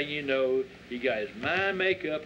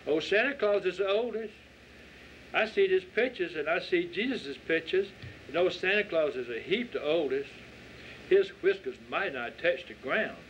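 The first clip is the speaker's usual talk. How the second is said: put-on insistent child; 4 semitones higher than usual.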